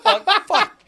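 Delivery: cracking up while admitting it; laughing at himself. Real, not acted. Laughing at his own court story.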